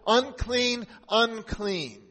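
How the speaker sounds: high, loud call to keep away; leper's warning shout. Acted. Leper warning a healthy person coming near, shouting. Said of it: "shout as loud as possible".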